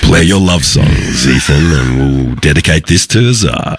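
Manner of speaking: slow, smooth late-night DJ dedication; 80s FM radio DJ. Acted. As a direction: croon a love-song dedication like an old radio host. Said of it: "nineteen eighties FM radio".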